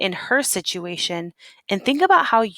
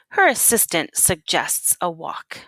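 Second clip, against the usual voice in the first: story narration. Acted. Teacher reads picture book aloud.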